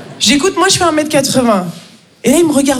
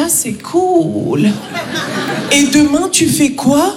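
unimpressed; slower than usual. Retold or imitated. Unimpressed French friend.

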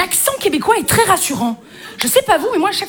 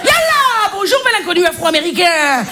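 hammed-up North African accent; Constantine accent. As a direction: play a saucy hostess with a Constantine accent. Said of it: "avec l'accent de Constantine".

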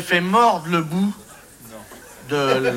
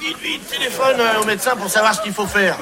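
mock urgent plea; 4 semitones higher than usual. Acted bitten man urging his friend.

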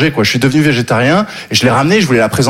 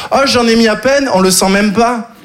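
put-on higher, airy girlfriend voice; girlfriend mimicked; 5 semitones higher than usual. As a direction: imitate her breezy excuse. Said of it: "elle disait". (la copine qui minimise, voix plus aiguë)

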